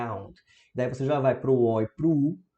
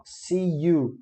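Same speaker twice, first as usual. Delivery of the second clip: slow, careful model; 4 semitones higher than usual. Shown as a demonstration. Teacher modeling the phrase slowly for students. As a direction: draw out "see you". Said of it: "agora é around".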